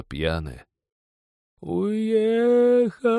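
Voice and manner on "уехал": long, high keening wail. A narrator's reading. Girl wails to the sky after the train leaves, long keening. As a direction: howl out the grief like a peasant woman. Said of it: "завыла по бабье".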